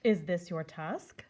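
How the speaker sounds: slow, lightly voiced old man; a hint of a calm elder; old man holding out the tusk.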